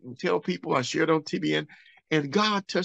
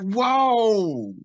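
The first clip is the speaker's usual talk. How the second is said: loud, high startled exclamation; startled whoa; 9 semitones higher, 5 dB louder than usual. Retold or imitated. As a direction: gasp it out as if the patient just moved. Doctors see toes wiggle.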